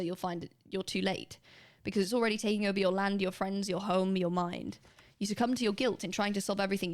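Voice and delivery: brisk, brooding storyteller reading dark prose; dramatic prose reading. Acted. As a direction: read it like a grim short story, pressing ahead. Reads submitted dark prose aloud.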